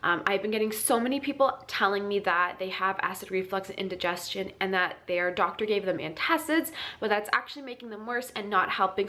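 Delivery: blocked nose, congested voice; stuffy nose. Real, not acted. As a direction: talk through a stuffy cold. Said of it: "so I sound very stuffy".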